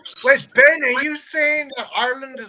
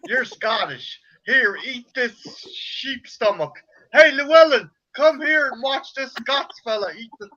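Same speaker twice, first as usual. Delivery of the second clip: loud hammed-up yokel voice teasing a Scot; mock hillbilly American; 3 dB louder than usual. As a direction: play a dumb redneck gawking at a foreigner. Continuing ignorant American bumpkin act.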